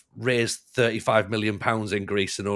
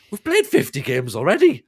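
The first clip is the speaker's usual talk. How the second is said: higher, louder mock complaint; protesting players; 6 semitones higher, 6 dB louder than usual. Tired players complaining to their manager, mock protest. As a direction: plead exhaustion to the boss.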